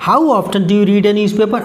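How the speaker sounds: slow, careful dictation of the example sentence; slow read-aloud. Shown as a demonstration. Teacher reading the example sentence slowly to students. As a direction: read it out word by word for the class.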